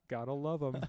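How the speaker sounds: loud joke tagline; mock ad slogan. Co-host finishing a fake sponsor plug, mock ad slogan. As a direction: land it like a sponsor's catchphrase. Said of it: "Was this like an ad?".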